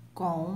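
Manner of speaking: comprimido split as com-pri-mi-do; separated into syllables. Shown as a demonstration. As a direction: say comprimido syllable by syllable, with a pause between each. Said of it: "foi separada assim". (comprimido separado em sílabas, com-pri-mi-do)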